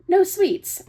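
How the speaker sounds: loud exasperated no sweets. Acted. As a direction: snap it back, fed up. Exasperated retort, foot tapping.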